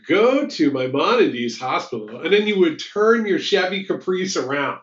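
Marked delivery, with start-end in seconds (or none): 0.1-2.2 slow, even recorded-message voice; automated voice. Retold or imitated. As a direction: read it like a hotline recording. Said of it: "an automated voice would be like".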